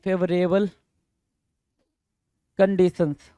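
word by word, long pause between; slow dictation. Real, not acted. Teacher writing out the meaning for students, slow dictation. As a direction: dictate it in pieces as you write.

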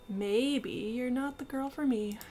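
lightly voiced hippie girl, breezy; a hint of a dreamy hippie girl. Hippie girl tells the traveller where she was going, lightly voiced. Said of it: "Hippie girl".

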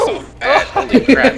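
hyped gamer bro. Real, not acted. Lag frustration.

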